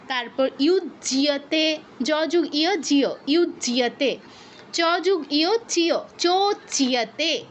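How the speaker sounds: slowly, syllable by syllable; slow demonstration. Shown as a demonstration. Teacher slowly breaking down words for the class. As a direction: spell out ইউজ্যতে and চোচিয়তে slowly. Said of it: "এরকম".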